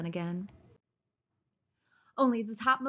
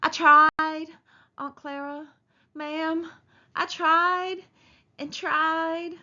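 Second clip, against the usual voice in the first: put-on higher, louder childlike pleading; a big simple man begging forgiveness; Lenny pleading with his aunt, higher and louder; 8 semitones higher, 6 dB louder, much slower than usual. A narrator's reading.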